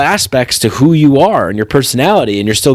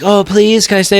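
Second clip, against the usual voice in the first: mock pleading; 6 semitones higher than usual. Victim pleads with the judge.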